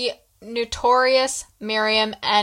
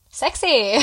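passionate. Real, not acted. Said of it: "You said that with so much passion".

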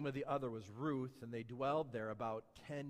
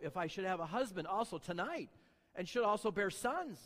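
sharp tone; 3 semitones higher than usual. Shown as a demonstration. Preacher reading Naomi to the church, turning sharp. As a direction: let the mother-in-law turn sharp. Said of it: "Notice the tone".

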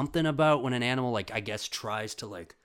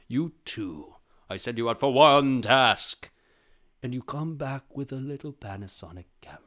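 villain boss; 3 semitones higher, 7 dB louder than usual. Acted. Jaguar boss scolding henchmen over the camera, villainous voice. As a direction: swell on the rebuke, then simmer down. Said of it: "The boss is like the jaguar".

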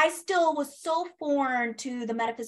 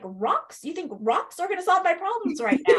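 mock incredulous, higher and louder, laughing through it; laughing disbelief; 6 semitones higher, 4 dB louder than usual. Telling the host about her friend's crystal advice, laughing in disbelief. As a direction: scoff at the idea of rocks while laughing.

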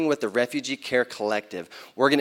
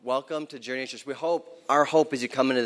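warm welcome. Real, not acted. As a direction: greet each listener gently. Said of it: "let me do that".

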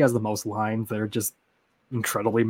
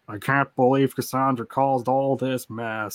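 quoted character line; slower than usual. Retold or imitated. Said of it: "the meme line where it's like".

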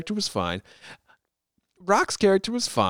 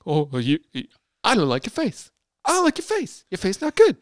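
mock London accent, pitched up; hammed-up London tough-guy taunt; badly faked London accent; Jason Statham; 3 semitones higher than usual. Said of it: "This is my London accent".

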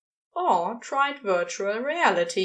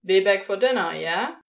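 calling out; 3 semitones lower, 5 dB louder than usual. A narrator's reading. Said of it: "Crowley called out".

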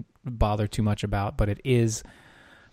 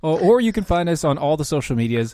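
radio host; 3 semitones higher than usual. Acted. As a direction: announce the show back from break. Radio host back from break.

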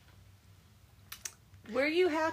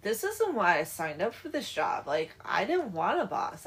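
mildly exasperated griping, growing louder; irritated henchman; 6 dB louder than usual. Retold or imitated. Hired criminal complaining about his boss, mock irritated. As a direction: grumble in imitation of a fed-up hired man. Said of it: "gets all irritated".

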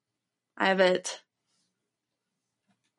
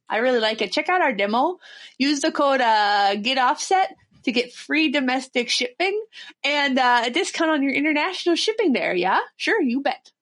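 put-on Minnesota accent. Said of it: "you're nailing it".

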